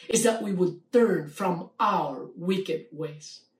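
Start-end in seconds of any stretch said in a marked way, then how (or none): 1.3-3.5 slow down and lean on "our" in "our wicked ways"; "our" drawn out and set apart, each word deliberate; stress on OUR. Real, not acted. Preacher pressing the last condition on the congregation, stress on "our". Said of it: "Let me emphasize the word our".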